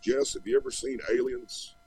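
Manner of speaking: a hammed-up quote of Cash asking; imitating Johnny Cash. Guest retelling Johnny Cash asking him about aliens, mock high voice.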